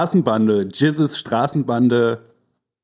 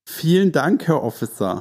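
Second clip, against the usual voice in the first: sweet innocent voice; 3 semitones higher than usual. Pretend. Sucking up to officer.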